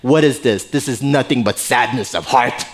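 stern, demanding king, lightly acted; a touch of imperious displeasure; arrogant king. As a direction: question him like a displeased ruler. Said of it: "this egotistical, arrogant king looks at Nehemiah and goes".

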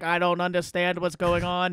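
lightly voiced Kennedy-style accent; Kennedy accent impression; John F. Kennedy. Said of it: "That was a good J F K".

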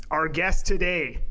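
podcast host introducing a guest; a lightly put-on announcer delivery. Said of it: "Why are you talking like that".

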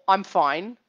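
"I'm fine" firm, weight on "I'm"; firmly stated "I'm fine"; second way, firmer. Shown as a demonstration. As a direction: lean on "I'm", keep it firm. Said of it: "three different ways of saying".

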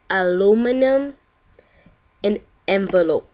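amateur Jamaican accent, each word ending on a lift; Jamaican accent attempt. Shown as a demonstration. Vlogger reading a word list for viewers, attempted Jamaican accent. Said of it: "I'm gonna say it in the Jamaican accent".

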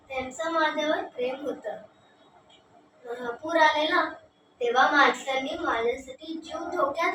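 gentle elephant reminiscing; fond, homesick elephant. Acted. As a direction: share a treasured memory, quietly moved. Elephant recalls people's love.

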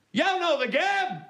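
high, slow Black Country exclamation; Black Country phrase. Shown as a demonstration. Comic teaching the crowd a local saying, high slow call. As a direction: stretch it out, broad Black Country. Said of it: "Phrase number two".

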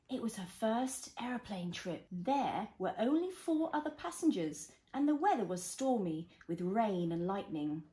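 gentle storybook reading; reading to a toddler. Acted. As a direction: read it like a bedtime story.

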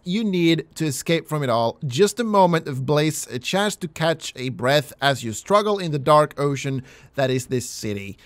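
moody story narration, reading it out; game narration. A narrator's reading. Narrating the player's despair in the city, moody. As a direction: read the bleak text with weight.

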